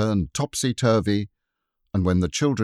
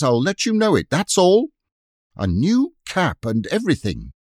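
higher, louder furious scolding; very angry housekeeper; 7 semitones higher, 4 dB louder than usual. Acted. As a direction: tear a strip off the children. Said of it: "she was very angry indeed".

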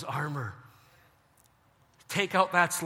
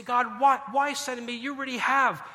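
whiny complaint; 5 semitones higher, 3 dB louder than usual. Retold or imitated. Complaining to God, retold.

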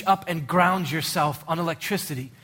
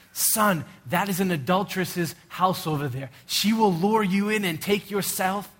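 higher, louder urgent father's warning; urgent fatherly warning; 4 semitones higher, 3 dB louder than usual. Retold or imitated. Solomon warning his son about the adulteress, higher and louder. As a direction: sound the alarm to your son. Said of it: "the same way I talked to Brandon".

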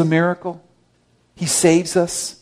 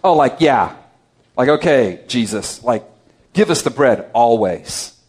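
sarcastic paraphrase; 4 semitones lower, 3 dB louder than usual. Retold or imitated. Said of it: "there's a bit of sarcasm there".

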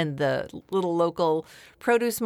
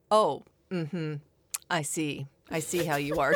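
condescending; 3 semitones lower than usual. Retold or imitated. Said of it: "she looked at me like".

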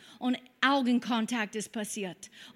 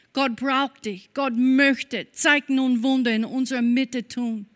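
louder, fervent preaching to the congregation; 4 dB louder than usual. Acted. Pastor urging the congregation, fervent louder preaching. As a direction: push the promise out to the whole room.

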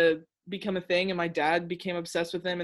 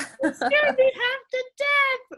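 teary laugh; 8 dB louder, slower than usual. Retold or imitated. Retelling mom's anger.

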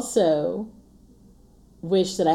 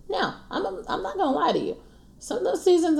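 laughing; 13 semitones higher, faster than usual. Real, not acted. Admitting hard seasons, laughing.

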